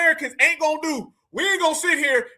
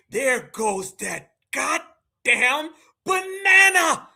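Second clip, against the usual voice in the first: slow, drawn-out serious take; mocking him by going dead serious; 2 semitones lower, much slower than usual. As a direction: stretch it out gravely. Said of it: "He got serious".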